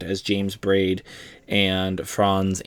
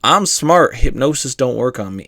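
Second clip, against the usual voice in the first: mock boast; 3 semitones higher than usual. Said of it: "somebody will say very strongly".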